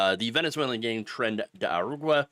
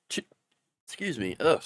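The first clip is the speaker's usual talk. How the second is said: hiccuping. Real, not acted. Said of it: "terrible hiccup day".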